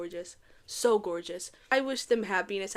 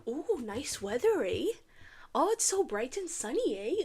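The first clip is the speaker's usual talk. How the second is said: mock Canadian; 5 dB quieter than usual. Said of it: "Elan was Canadian".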